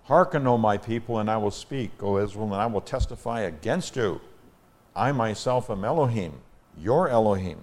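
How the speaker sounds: measured, emphatic psalm reading; scripture reading. Acted. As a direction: proclaim the psalm to the congregation. Reads God's words from psalm.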